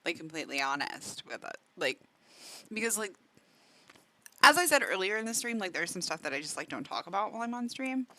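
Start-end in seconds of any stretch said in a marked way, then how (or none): 5.6-8.1 talking with food in mouth; mouth full. Real, not acted. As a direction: speak round a mouthful. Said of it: "Sorry, I'm talking with food in my mouth".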